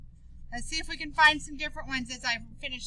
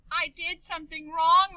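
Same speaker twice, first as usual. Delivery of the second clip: sobbing; 3 semitones higher than usual. Acted. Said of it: "Maria sobbed".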